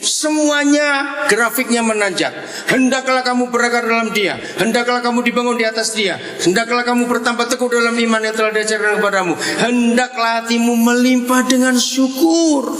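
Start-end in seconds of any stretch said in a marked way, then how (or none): 2.7-12.7 raised, measured reading of a Bible passage, slowing at the end; scripture recitation. Acted. Preacher reciting Colossians to the congregation, solemn reading. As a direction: proclaim each hendaklah line like a psalm.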